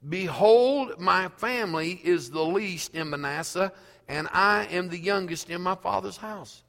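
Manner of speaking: lightly voiced Gideon, pleading his weakness. Gideon protesting to the Lord that he is least, lightly pleading. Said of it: "And he said to him".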